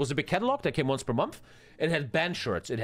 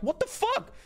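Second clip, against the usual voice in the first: retold outraged yell; 11 semitones higher than usual. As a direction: yell back at the whole class in disbelief. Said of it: "I'm like".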